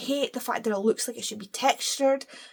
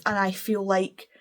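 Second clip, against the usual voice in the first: whispered aside. Real, not acted. Quiet aside before sigh.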